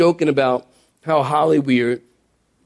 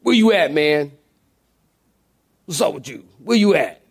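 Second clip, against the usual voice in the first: demanding, street-style. Shown as a demonstration. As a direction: badger him like an impatient friend. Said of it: "Did he say it like that?".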